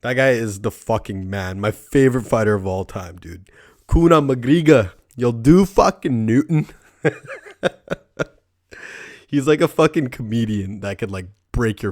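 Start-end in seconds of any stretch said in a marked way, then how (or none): 3.9-6.7 high, slow Irish brogue with a laugh; mock Irish accent, higher and louder; Conor McGregor impression. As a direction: channel the Irish fighter's swagger, drawn out and laughing. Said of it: "Conor McGregor round two knockout".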